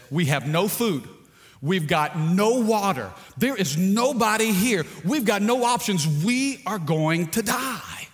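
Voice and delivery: hammed-up alarm building to a slow, dragged-out doom; panicking castaway. Shipwrecked man lists his fears to his friend, building mock panic.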